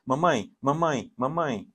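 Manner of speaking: lightly imitated child, slow repeated calls; mock a child pestering for attention; child calling mother. Jealous child interrupting mother and her boyfriend, lightly imitated pestering. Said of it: "ela vai ficar".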